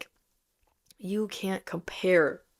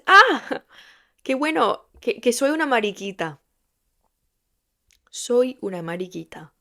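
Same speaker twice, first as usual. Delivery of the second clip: loud, high, bright declaration; proud announcement; 4 semitones higher, 6 dB louder than usual. Retold or imitated. Telling teens she is a mariquita, proudly loud. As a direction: announce it with full pride.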